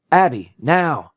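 loud, high, drawn-out call; urgent yelled command; urgent shout. A narrator's reading. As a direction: shout the order with each word stretched. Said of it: "D J shouted".

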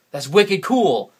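New England "wicked cool", drawn out and loud; New England slang, said big and slow; New England slang demo. Shown as a demonstration. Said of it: "we say wicked instead of the word very".

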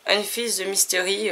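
English words with French sounds; French-accented English. Real, not acted. Vlogger reading the text on the book, French-accented English. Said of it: "mon super accent anglais qui s'améliore pas".

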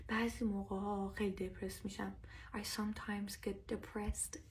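1 mock depressed whisper. Acts out a low mood example.

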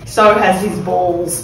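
laughing. Real, not acted. Laughing at own joke.

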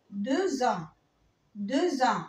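"دو زان" with the silent x turned to z; liaison with z. Shown as a demonstration. Teacher showing French beginners the linking z, clear liaison. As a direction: link "دو" into "زان" with a z sound. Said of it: "لو جه بعديها لتر فويل بنطقها ز".

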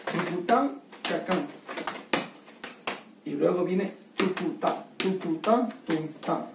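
tucután and tucutá voiced as crisp beats; rhythm demo. Shown as a demonstration. Teacher showing how the zapateo must sound. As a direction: tap out "tucutá" with the voice. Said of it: "tiene que escucharse, mira".

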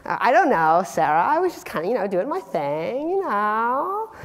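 squeaky mock-innocent cheerleader; flustered cheerleader. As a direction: stammer an excuse in a high cheerleader voice. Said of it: "I'm like".

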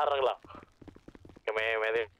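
ordinary talk

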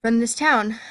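breathless from reading on and on; running short of air; out of breath. Real, not acted. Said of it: "Oh my God, I'm out of breath".

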